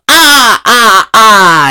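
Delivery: high "ah ah ah" burst; hammed-up laugh, starting high; mock laugh. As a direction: imitate a playful showy laugh. Same woman's mock laugh, hitting him.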